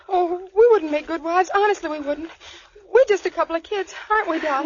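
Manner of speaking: tearful pleading. Acted. Begs captor not to marry them.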